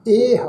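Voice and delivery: ਇਹ as a long "eh"; ਇਹ in one careful syllable; correct pronunciation. Shown as a demonstration. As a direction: hold the e of ਇਹ, with no "ho" after it. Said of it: "ਇਸ ਢੰਗ ਦੇ ਨਾਲ".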